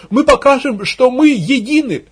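high, loud agitator's call; ranting rally cry. Acted. Propagandist rallying villagers, frenzied cry. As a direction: belt it out to the crowd. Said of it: "кликушески возопил пропагандист".

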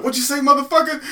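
loud high furious shout; angry yell. Retold or imitated. Guys jump out of the car, yelling in anger. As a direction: yell it like a threat. Retold guys confronting man.

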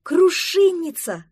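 high, loud, slow «Крушинница!» of delight; excited exclamation. Acted. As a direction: cry «Крушинница!» out with joy on spotting it. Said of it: "воскликнула Октава".

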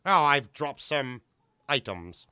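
lightly voiced theatrical Brit; Tim Curry impression. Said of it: "That's how he sounds".

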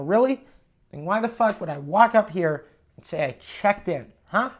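retold indignant challenge, leaning into the questions; incredulous retort. Guest challenging the clerk who says he already checked in, incredulous. Retelling his argument with desk clerk.

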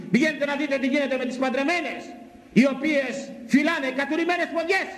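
high, insistent pulpit delivery; fiery preaching. Real, not acted. Preacher rebuking working married women before the congregation, fiery preaching. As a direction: preach it in a high, ringing exhortation.

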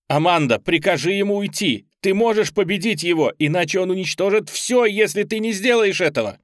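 loud, high urgent shout. Acted. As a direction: shout to reach her through the demon. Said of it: "я начал кричать". (громкий призыв)

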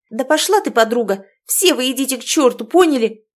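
loud, high furious yell; screaming at friends. Acted. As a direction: tell them all to go to hell. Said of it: "закричала она".

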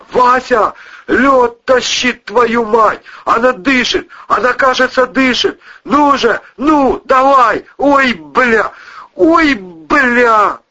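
high, loud frantic hope and panic; frantic shouting. Acted. Cousin reviving the woman, loud frantic shouting. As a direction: shout in desperate relief.

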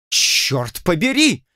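a slow, stretched curse of disbelief; exclaiming. A narrator's reading. Lord Julian swears at Blood, slow mock exclamation. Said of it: "воскликнул лорд Джулиан".

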